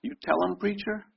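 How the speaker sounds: high lift on "You", "preacher" dropped soft; stress on you. Shown as a demonstration. Pastor showing the flock that "You" is the key word, lifted high. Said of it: "Do you see what that means?".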